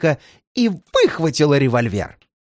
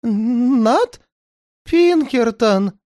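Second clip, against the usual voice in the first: медленно, высоко, в ужасе; выдохни имя сыщика со страхом; дрожащий голос; 9 semitones higher, much slower than usual. A narrator's reading. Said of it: "дрожащим голосом". (испуганный повтор)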